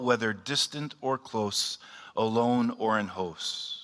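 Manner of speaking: measured, reverent prayer recitation; solemn prayer. Acted. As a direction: recite the breastplate prayer with gravity. Leads Saint Patrick's prayer aloud.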